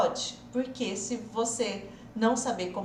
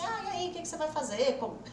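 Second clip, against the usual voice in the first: imitating a conversation; faster than usual. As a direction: rattle it off like a curious friend. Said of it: "Sabe aquela coisa assim". (imitando uma conversa rápida e curiosa)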